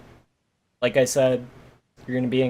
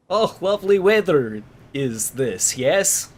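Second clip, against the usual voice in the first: mock foreign accent in broken English; slightly halting, put-on foreign-speaker accent; 3 semitones higher, slower than usual. Game master imitating a character struggling in English, broken-English accent. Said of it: "Speaking broken-ass English".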